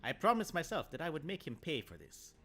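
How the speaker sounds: measured storyteller reading aloud; calm read-aloud narration; story narration. A narrator's reading. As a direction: tell the tale steadily.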